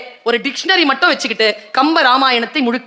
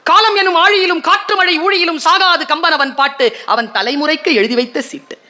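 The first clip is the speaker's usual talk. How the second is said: savoured poem recital. Shown as a demonstration. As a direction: savour the poem lines, lifted in pitch. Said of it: "எப்படியா?".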